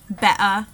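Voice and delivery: "better" with the t swallowed in a glottal stop, "be'er". Shown as a demonstration. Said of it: "the glottal stop".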